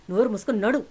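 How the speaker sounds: loud sharp order to shut up; angry order. Acted. Aunt orders niece home, loud and angry. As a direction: command her fiercely to go.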